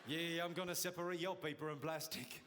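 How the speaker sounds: lightly put-on seventies blaxploitation voice; a hint of smooth New York cool; sexy voice. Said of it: "That's my sexy voice".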